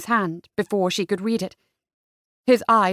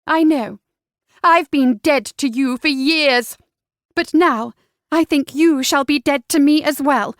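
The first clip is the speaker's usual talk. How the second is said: sadly resolute; 4 semitones higher, 6 dB louder than usual. A narrator's reading. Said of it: "lifted one shoulder sadly".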